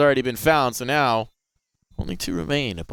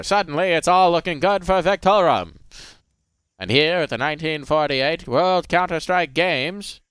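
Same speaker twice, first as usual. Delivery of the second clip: put-on old radio announcer. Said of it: "There's an old-timey radio broadcast this round".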